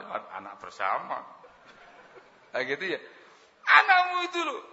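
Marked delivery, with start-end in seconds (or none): 3.7-4.6 high put-on voice of a sulky wife; wife complaining. Wife complaining to husband, high whiny put-on voice. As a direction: whine it like an upset wife blaming him.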